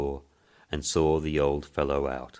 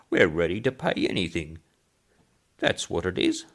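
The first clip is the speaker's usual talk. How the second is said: put-on high piping old man, loud on robbery; indignant old man; 3 semitones higher, 3 dB louder than usual. Old man complaining about the hotel, indignant. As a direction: grumble about the jam price, old man.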